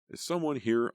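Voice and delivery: nervous call across the noisy shelter. A narrator's reading. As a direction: call out to find who's there. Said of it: "I called".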